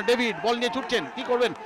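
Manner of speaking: building from lively to high, loud near-shout; frantic football commentary. Real, not acted. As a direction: rise to a roar as the chance comes. Live attack builds to chance.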